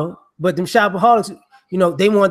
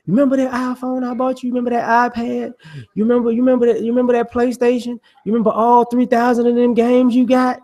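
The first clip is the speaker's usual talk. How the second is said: parent voice; 5 semitones higher than usual. Acted. Parent reminding kid of gifts.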